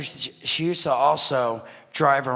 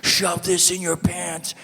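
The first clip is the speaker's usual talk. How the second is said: mom's hurried order; 6 semitones higher, slower than usual. Retold or imitated. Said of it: "she's like".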